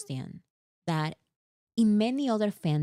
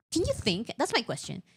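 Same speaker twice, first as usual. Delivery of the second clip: exasperated; 5 semitones higher, faster than usual. Real, not acted. Exasperated rant.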